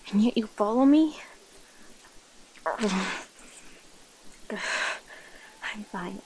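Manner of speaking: irritated creature straining for control; hungry predator character. Acted. Sending away the human who followed you hunting, irritated and strained.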